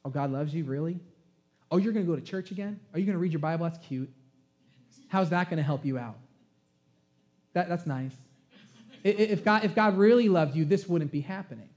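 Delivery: a light sneering tempter voice, teasing; mocking sneaky snake. Preacher voicing the snake mocking churchgoers. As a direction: needle them like a sly snake. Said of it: "in comes that sneaky snake".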